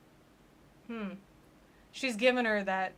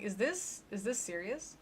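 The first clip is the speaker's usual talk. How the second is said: quiet, doubtful murmur; hushed mock question; 7 dB quieter than usual. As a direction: ask it under your breath. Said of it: "they're talking like".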